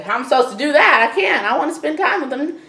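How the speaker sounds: high, fast pleading whine; whiny Dallas. Retold or imitated. Dallas whining to Allie about Drew, high and fast. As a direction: protest like a hurt kid. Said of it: "he's like".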